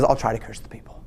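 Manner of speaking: whispered aside; Balaam conspiring quietly with the king. Retold or imitated. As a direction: say it like a secret to the king. Balaam's sneaky reply to king.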